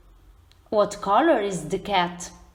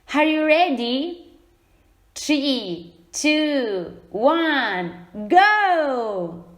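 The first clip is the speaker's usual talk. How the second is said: rising, louder count to go; excited countdown; 5 semitones higher, 3 dB louder, much slower than usual. Real, not acted. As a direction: pump the class up before reading. Teacher counts down to start story.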